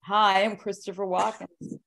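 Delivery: slow half-hearted celebrity impression; a hint of Walken, said slowly and unsure; Christopher Walken impression. Answering his co-host's dare, a slow half-hearted Walken impression. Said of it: "I can't do Christopher Walken's".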